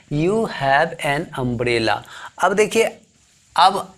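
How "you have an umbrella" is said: slow example. Shown as a demonstration. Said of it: "पांचवा जो है वो क्या है?".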